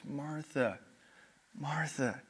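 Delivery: soft, gentle repeated name; loving, quiet double call; tender. Shown as a demonstration. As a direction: call her name with kindness. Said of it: "kindness and love in Jesus' voice".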